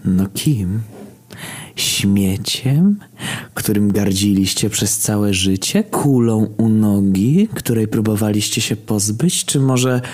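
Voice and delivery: high, drawn-out mocking questions; taunting villain. Villain goading the grieving brother, theatrically mocking. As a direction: stretch each insult upward, goading.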